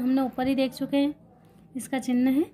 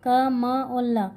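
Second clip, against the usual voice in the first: each letter क, म, ल said very slowly and separately; spelling out slowly; much slower than usual. Shown as a demonstration. Teacher naming the letters of कमल for students, very slow. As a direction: draw out the letters one by one.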